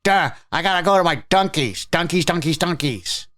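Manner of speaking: high mocking dopey voice; lightly voiced dopey coffee fan; mock a dopey fan chanting Dunkies; mock dimwit. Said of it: "when I hear Dunkies".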